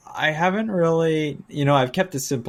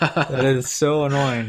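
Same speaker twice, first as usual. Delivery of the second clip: laughing. Real, not acted. Laughing at the power move.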